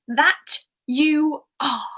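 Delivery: smug authority figure. Retold or imitated. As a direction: imitate an official catching troublemakers, slowly. Acting Umbridge walking in on them.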